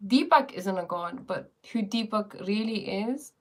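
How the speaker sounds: slipping into an Indian accent; a hint of Indian accent. Real, not acted. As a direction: let a little Indian accent creep in. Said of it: "my accent is going Indian".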